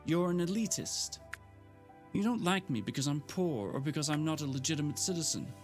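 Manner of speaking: high, strained near-tears rant; fighting back tears while accusing; unsteady tearful voice. Acted. Gemma to Frank, near tears and indignant. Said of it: "her voice sounded unsteady".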